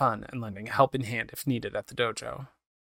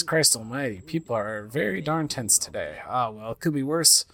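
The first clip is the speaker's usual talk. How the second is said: inner thoughts; 2 semitones higher than usual. Acted.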